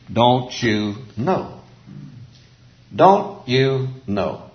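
each word drawn out slowly; "don't... you... know", very slow and deliberate; slow, pointed question. Shown as a demonstration. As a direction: spell it out word by word. Slow repetition of verse for emphasis.

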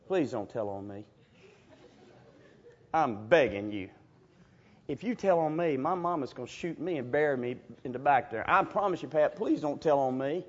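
put-on soft, low begging boy; mock desperate whispered begging; hushed pleading. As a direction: plead quietly so nobody hears. Begging the girl not to tell.

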